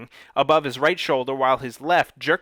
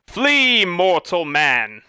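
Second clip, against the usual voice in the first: high, loud, slow bellowing monster; monster roar; 5 semitones higher, 5 dB louder, much slower than usual. A narrator's reading. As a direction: roar the threat at the intruder. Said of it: "the monster roared".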